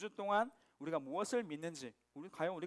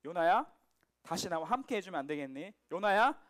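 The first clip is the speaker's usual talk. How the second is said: tender pleading. Acted. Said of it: "말씀하시는 거란".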